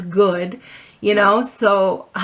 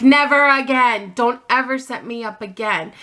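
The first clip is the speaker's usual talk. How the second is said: frustrated; 4 semitones higher than usual. Retold or imitated. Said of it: "when I get frustrated and angry".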